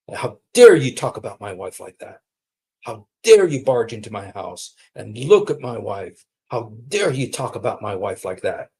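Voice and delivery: indignant, heavy weight on each "dare"; mock fury. Husband to the man who barged in, mock fury. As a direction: imitate an outraged husband, punching "dare". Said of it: "He was furious".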